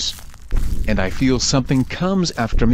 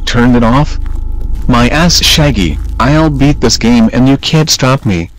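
angry; 5 dB louder than usual. Acted. Fred defies Shaggy.

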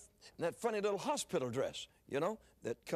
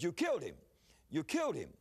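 retold outraged accusation, falling hard on KILLED; mock-alarmed accusation; doctor's accusation; 5 semitones higher than usual. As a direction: imitate an appalled doctor accusing, pitch jumping up. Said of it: "he looked up and said".

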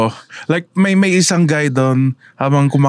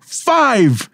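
excited announcement; 4 semitones higher, much slower than usual. Acted. Announcing a five-day podcast.

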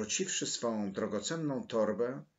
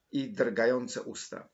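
ordinary delivery

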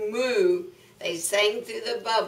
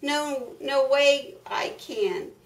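higher-pitched duck refusal; quacking duck; 5 semitones higher than usual. Acted. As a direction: lightly quack out a protest. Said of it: "The duck quacked".

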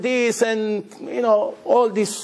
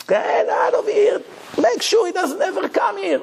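higher, shouted order to get out; parent shouting; 13 semitones higher than usual. Retold or imitated. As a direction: yell him out of the house, mock-furious. Parent throws the boy out.

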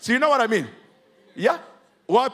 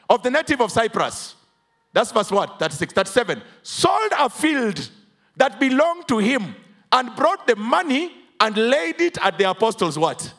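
full-force preaching; 3 semitones higher than usual. Acted. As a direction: drive the verse home to the congregation. Emphatic scripture preaching.

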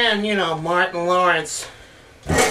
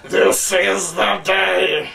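slow, drawn-out epic movie line; epic trailer voice; much slower than usual. Retold or imitated. Mocking movie trailers, slow epic declaration. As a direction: spoof a grand trailer line slowly. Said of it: "a little bit like "This is Spartan".

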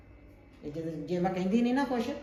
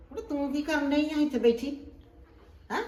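higher, sharp nagging at the granddaughter; scolding grandma; 7 semitones higher, 3 dB louder than usual. Acted. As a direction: catch her on the phone and tell her off. Grandma scolds girl on phone.

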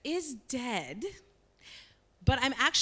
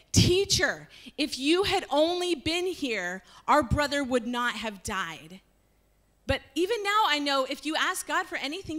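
raised, higher voice, grieved and reproachful; pleading reproach; 4 semitones higher, 3 dB louder than usual. Acted. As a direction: plead with a friend who came too late. Martha reproaching Jesus.

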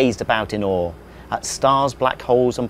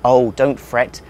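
slow, soothing alien; calm them down gently; reassuring; 5 dB louder, slower than usual. Acted. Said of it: "the alien said".

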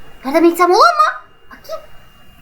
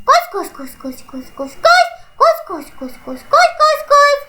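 being chased; 6 semitones higher than usual. Real, not acted. Urging while being chased.

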